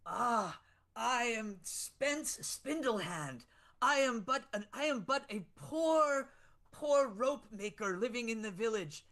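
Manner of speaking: grovel, then hint at the pay; a poor rope maker, lightly put-on and meek; humble peasant. Player voices Spence.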